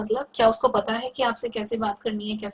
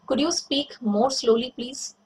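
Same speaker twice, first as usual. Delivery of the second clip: slow polite request; 2 semitones higher, much slower than usual. Shown as a demonstration. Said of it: "आप उसको कह सकते हो".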